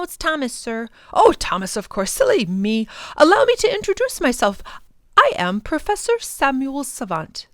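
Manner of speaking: a fussy scholar being courteous; light old gentleman voice; genial professor. Acted. Professor voice held.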